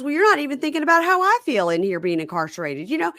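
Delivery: put-on high, self-pitying boyfriend; whiny inmate voice. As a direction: complain in a high whine. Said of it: "and he goes".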